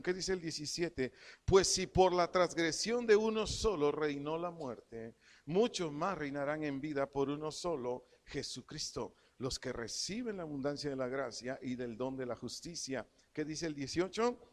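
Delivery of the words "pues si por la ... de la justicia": preacher proclaims the verse, leaning on each phrase; scripture reading. Acted. Preacher reads Romans to the church, emphatic scripture reading.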